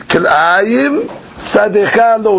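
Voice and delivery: slow, with "Kil'ayim" joined to "sadecha lo"; regrouped reading. Shown as a demonstration. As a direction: read "Kil'ayim sadecha lo" slowly as one phrase. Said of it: "So you read".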